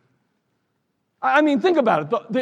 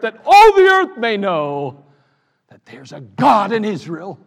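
bold baritone David; 5 dB louder than usual. Acted. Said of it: "using my baritone voice".

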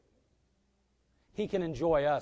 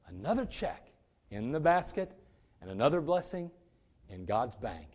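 willing, cheerful giver. Acted. Preacher models a glad giver at the offering basket, willing. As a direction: give it gladly, gently savoring each phrase. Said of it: "No, he wants you to go".

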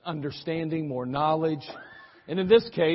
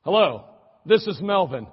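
calm; 4 semitones higher, 6 dB louder than usual. Acted. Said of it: "The father said calmly".

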